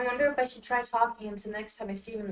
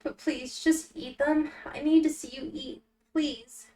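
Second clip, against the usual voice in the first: lightly voiced pleading Al; 4 semitones higher than usual.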